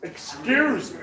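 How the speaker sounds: slow, exaggerated American accent; put-on American drawl, hammed up. Shown as a demonstration. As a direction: drag the words out in a mock American accent. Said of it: "that's a bloody American accent I can bloody do".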